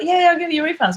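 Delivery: high, hurried placating clerk; hammed-up nervous staff; mock staff voice. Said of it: "counter's like".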